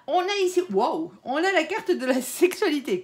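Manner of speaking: high, loud delighted wow; thrilled at what turned up; excited. Real, not acted. Excited at drawing a card.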